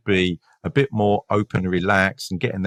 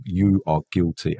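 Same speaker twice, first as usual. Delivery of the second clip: slower and deeper, pressing each word; the police officer drops the friendly act to confront the suspect: slow, deep accusation; stern interrogator; 3 semitones lower than usual. Shown as a demonstration. Game face on, leaning in and accusing. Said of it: "Now I'm deep".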